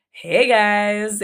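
high, loud and beaming; glowing greeting. Retold or imitated. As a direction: burst in bursting with happiness. Arriving glowing to her friends.

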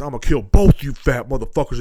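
mock angry threat. Angry neighbor threatening kids.

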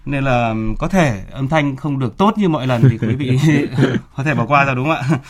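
talking through a face mask; muffled by a mask. Real, not acted. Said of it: "chúng tôi đeo khẩu trang trong suốt".

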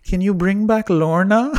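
a hint of a sweet elderly audience member; sweet old lady. Old lady in the front asking the host, lightly imitated. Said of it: "this sweet old lady in the front".

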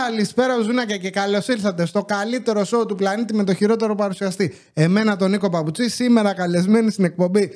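upbeat presenter welcome; show host intro. Acted. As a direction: open it like a TV host.

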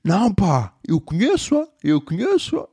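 high, insistent protest; drunk teen voice. Retold or imitated. Teen at the party insists he knows the girl, high whiny. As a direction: pitch it up like a whiny drunk kid. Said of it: "E ele".

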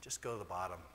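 softly, low and gentle God speaking. Retold or imitated. God telling the preacher softly to go to the bottom and let him deal with it. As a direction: let it settle, hushed and calm. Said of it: "And God says".

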